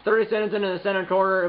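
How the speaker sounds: normal talking voice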